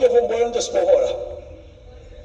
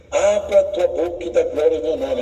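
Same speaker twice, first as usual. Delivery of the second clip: lower, solemn voice of God; voice of the Lord; 6 semitones lower than usual. Retold or imitated. A lightly lowered voice of God telling him to open his mouth. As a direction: speak low as the Lord commanding. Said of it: "o Senhor falou assim".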